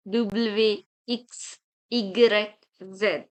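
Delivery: French letter names from K as "kah" to Z as "zed"; French alphabet drill. Shown as a demonstration. Teacher leading repeat with me, French letter names. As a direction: recite K to Z in French for repetition. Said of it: "Now you can repeat it with me".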